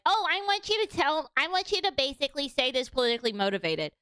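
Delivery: high-pitched mock plea to the AI; mocking whiny victim. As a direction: ham up a self-pitying victim begging. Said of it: "be a victim and be like".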